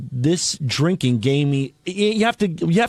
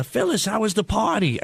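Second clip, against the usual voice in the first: lightly voiced old lady, higher pitch; higher-pitched hint of an elderly Jewish woman; 3 semitones higher, 3 dB quieter than usual. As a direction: quote a nice old lady asking after a party. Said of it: "nice old Jewish lady next to me".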